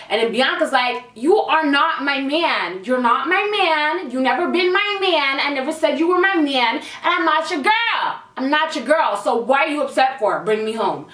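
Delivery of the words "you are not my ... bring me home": utmost attitude. Retold or imitated. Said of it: "with the utmost attitude".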